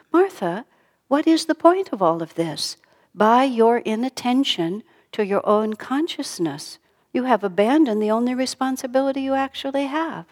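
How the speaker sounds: a touch of indignant questioning; acted Martha's reproach. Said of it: "He just answered Martha on her own terms".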